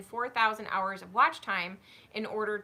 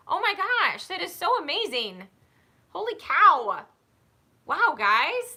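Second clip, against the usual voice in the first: real excitement; 6 semitones higher, 6 dB louder than usual. Real, not acted. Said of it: "a little flabbergasted".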